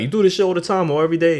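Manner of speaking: fast, high mock argument. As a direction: rattle it off like a heated fight. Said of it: "when people argue".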